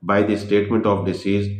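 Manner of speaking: very slow, word by word, as if dictating notes; slow heading read. Shown as a demonstration. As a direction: spell out the heading slowly so students can write it. Reading out a heading slowly. (धीरे धीरे शीर्षक लिखवाना)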